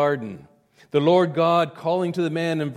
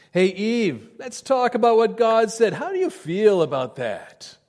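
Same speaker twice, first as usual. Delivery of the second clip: tempter voice; 6 semitones higher than usual. Acted. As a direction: coax Eve like a smooth tempter. Satan voiced as smooth tempter.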